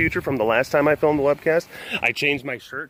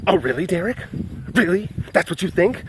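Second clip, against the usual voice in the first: higher, incredulous mock challenge; mock indignation; 4 semitones higher than usual. Outraged viewer challenging Derek, mock indignant. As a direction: question him in pretend disbelief.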